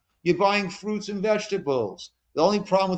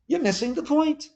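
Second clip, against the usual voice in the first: raised emphatic retelling; 10 semitones higher than usual. Retold or imitated. Rabbi retells his emphatic reply.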